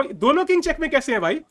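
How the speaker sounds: puzzled at an impossible-looking board; baffled. Real, not acted. Streamer baffled that both kings seem in check, incredulous.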